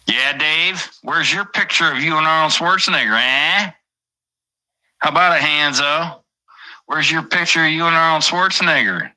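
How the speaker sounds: high sneering taunt; mock taunting chatter. Streamer voicing a chatter mocking his missing photo, high and jeering.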